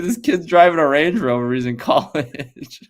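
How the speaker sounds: put-on high, loud New York accent; brash New York accent, slowing at the end; the speaker's New York accent. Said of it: "New York accent".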